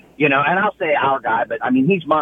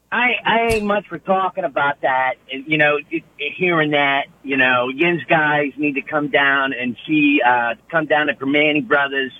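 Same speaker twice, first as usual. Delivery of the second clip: Pittsburgh accent. Shown as a demonstration. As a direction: put on a local Pittsburgh accent. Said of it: "Can you do a Pittsburgh accent for me?".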